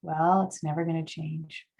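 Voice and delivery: lightly voiced gloomy donkey, a little low; a hint of resigned gloom, softly sinking; Eeyore. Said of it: "Dorsal lawyer could be like Eeyore".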